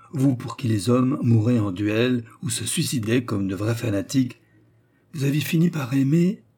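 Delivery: lightly acted admiring confidante; fervent young courtesan. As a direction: recount it with mild dramatic fervour. Turquoise reports Germain's tale.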